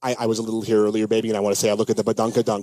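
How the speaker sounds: a lightly voiced, fast-talking smooth movie guy; Vince Vaughn impression. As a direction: rattle it off like a cocky smooth talker. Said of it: "What would Vince Vaughn say?".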